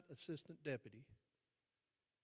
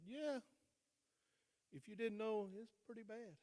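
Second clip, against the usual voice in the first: retold defiant confession; 8 semitones higher, 3 dB louder than usual.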